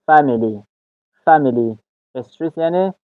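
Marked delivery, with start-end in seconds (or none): 0.1-1.8 فامیلی stressed on "FAM"; first-syllable stress. Shown as a demonstration. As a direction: hit the opening syllable of فامیلی, "FAM-ily". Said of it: "استرس روی حرفی اف است یا هجای اول".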